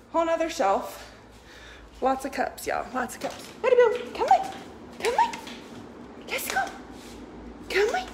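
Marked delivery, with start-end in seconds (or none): 3.6-8.1 very high coaxing dog call; hurrying someone. Real, not acted. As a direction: urge the puppy along, high.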